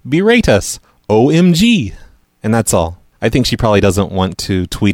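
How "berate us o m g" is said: higher-pitched, hammed-up indignation; mock outrage. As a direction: mockingly read out an indignant tweet. Mocking her last tweet.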